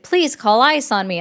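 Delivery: mild mock request; sarcastic. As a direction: quote it with light sarcasm. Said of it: "that last part is sarcastic".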